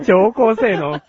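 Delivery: slow robotic announcement. Pretend. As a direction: spell it out slowly, like a machine. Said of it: "ロボットな".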